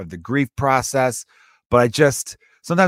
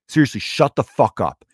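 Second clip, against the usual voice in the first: firm follow-up. Retold or imitated. Comic following up to a heckler, firmly matter-of-fact. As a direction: command run together at talking pace. Same command repeated in one run.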